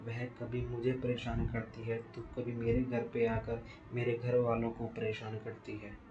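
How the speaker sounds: soft, troubled plea; quiet and downcast, pleading; sad woodcutter. Acted. Woodcutter complains to the king.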